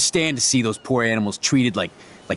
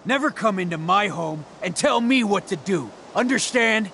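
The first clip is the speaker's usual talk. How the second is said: raised-pitch angry warning; indignant, higher at the end; 6 semitones higher than usual. Acted. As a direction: lay down the law, voice rising. Frank warns intruders in acted quarrel.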